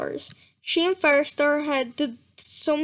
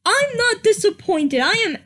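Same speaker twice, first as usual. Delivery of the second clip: mock anger; 3 dB louder than usual. Real, not acted. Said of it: "You can't see the anger on my face".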